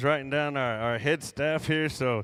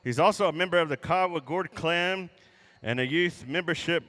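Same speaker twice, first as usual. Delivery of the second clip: powwow emcee. Real, not acted. Emcee introduces head gourd dancer.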